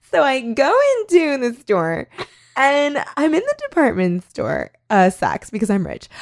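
put-on high, valley-girl vlogger rant. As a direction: gush like a car-selfie vlogger. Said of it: "it was just her being like".

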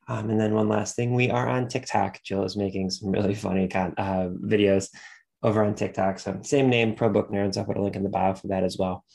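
blocked nose from allergies; stuffy nose. Real, not acted. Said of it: "Sorry if I sound a little stuffy".

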